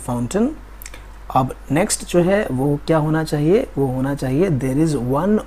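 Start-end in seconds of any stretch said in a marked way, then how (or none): 0.1-0.5 "fountain" as FOWN-tun; short second syllable in "fountain"; modelled pronunciation. Shown as a demonstration. Teacher modelling what to say, "fountain" ending in "tun". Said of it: "तो आपको बोलना है".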